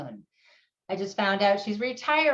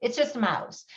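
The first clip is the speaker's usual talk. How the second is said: lightly voiced dismissive adult, lower; brushing off a child's grief, lightly imitated; 4 semitones lower, faster than usual. Dismissive adult brushing off a child's mouse grief, mild imitation. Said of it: "if adults were saying to you".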